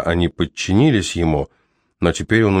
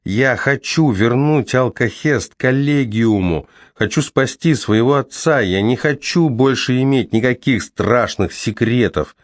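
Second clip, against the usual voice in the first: shouting; 5 semitones higher than usual. Acted. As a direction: shout it all out. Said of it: "перешёл на крик Кол".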